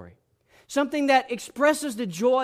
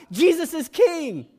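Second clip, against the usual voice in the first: higher, louder and slow call of praise; 6 semitones higher, 5 dB louder, slower than usual. Retold or imitated. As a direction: proclaim it slowly mid-service. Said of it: "will say in the middle of a service out loud".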